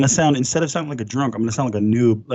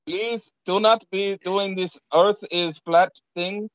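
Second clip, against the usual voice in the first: stern agent voice; 3 semitones higher than usual. Acted. Mock agent scolding.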